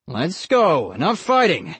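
stern man; no-nonsense order; firm uncle. A narrator's reading. Uncle ends fight.

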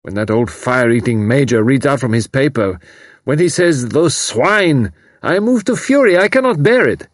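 put-on young German man moved to rage; torn, furious refugee. A narrator's reading. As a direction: build from anguish to fury. Karl rising to fury.

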